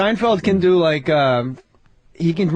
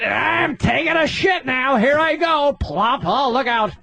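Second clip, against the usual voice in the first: higher, slow nerdy white guy; 5 semitones higher, slower than usual. Retold or imitated. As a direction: play an uptight square. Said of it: "You ever see a white motherfucker take a shit?".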